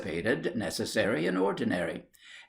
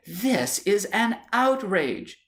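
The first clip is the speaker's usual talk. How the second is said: outraged; 10 semitones higher, slower than usual. Acted. Wife exploding at husband before flouncing out.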